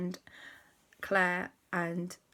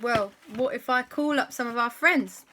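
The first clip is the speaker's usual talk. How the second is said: put-on excited kid voice; 6 semitones higher, 6 dB louder than usual. Child voiced in a story.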